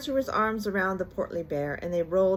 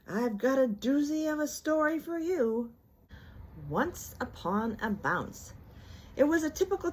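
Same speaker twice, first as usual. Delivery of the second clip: Tigger; 7 semitones higher than usual. A narrator's reading. Tigger offering a story.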